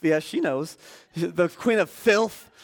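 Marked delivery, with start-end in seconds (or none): 1.1-2.5 put-on a lighter echo of the old hag, higher and slow; jeering old crone. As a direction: sneer it slowly like the crone again. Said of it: "that old lady saying".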